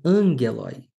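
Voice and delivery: "angeloi" stressed on AN, falling after; stress on accented syllable. Shown as a demonstration. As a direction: punch the first syllable of "angeloi", hard g. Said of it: "tem um acento agudo".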